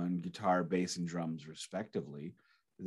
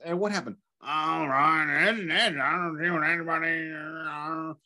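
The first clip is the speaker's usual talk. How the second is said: acting out film scene; 6 semitones higher than usual. Acting out Hot Fuzz scene.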